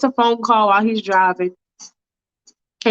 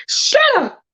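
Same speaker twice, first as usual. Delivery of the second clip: mock shout. Michael silencing the debtor.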